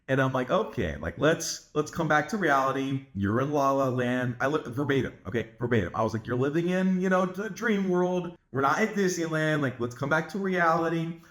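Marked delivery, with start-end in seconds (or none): 0.5-4.4 lightly patronizing, easy tone; calm, playful teasing; playful mocking. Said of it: "playfully make fun of them". 6.3-11.2 slightly sing-song, teasing tone; lighthearted mocking. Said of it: "in a lighthearted way".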